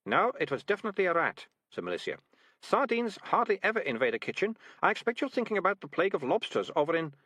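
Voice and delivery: a hint of a lecturing girl; girl's voice. A narrator's reading. Malicia argues.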